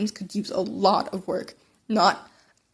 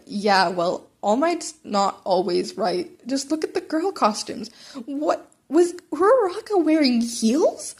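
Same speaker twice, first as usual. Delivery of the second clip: Hitoshi's voice; 3 semitones higher, slower than usual. Retold or imitated. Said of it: "sounded suspiciously like Hitoshi's".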